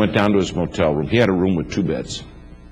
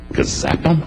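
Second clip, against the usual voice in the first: mock zap; 12 semitones higher than usual. Playful made-up zap word.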